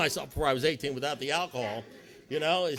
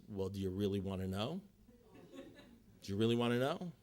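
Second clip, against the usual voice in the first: sponsor; 5 semitones lower, 5 dB quieter than usual. Retold or imitated. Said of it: "And then he goes like this".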